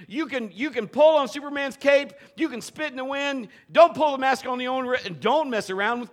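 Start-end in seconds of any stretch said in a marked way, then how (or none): none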